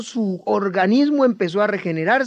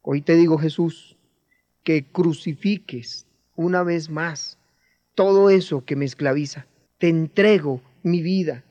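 guided prayer. Acted. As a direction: pray humbly on their behalf. Guides a men's prayer aloud. (oración guiada, humilde y sentida)

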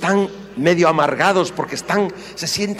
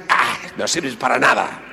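scornful husband. Retold or imitated. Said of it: "empieza la agresividad".

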